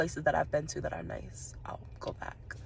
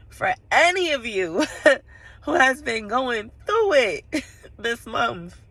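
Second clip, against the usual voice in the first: loud, higher, breaking into laughs; real laughter; 5 semitones higher, 4 dB louder, slower than usual. Real, not acted. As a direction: laugh through the words. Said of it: "I don't know, I'm laughing".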